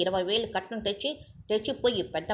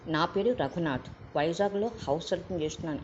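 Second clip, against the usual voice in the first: grave. Acted. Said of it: "గంభీరంగా".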